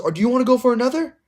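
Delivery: high, fast, taunting ref; mocking the ref. Coach mocks the ref threatening another penalty.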